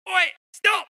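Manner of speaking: put-on high shouted jokey Thetford accent; mock Thetford accent. Jesus halting people, mock Thetford accent shout. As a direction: call out sharply in comic Thetford. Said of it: "sort of an Aramaic Thetfordian".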